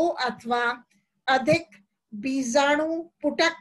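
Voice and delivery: measured dictation with long pauses between phrases; slow dictation. Real, not acted. Teacher dictating notes to students as they write, slow dictation. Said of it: "मैं धीरे धीरे बोलती हूँ".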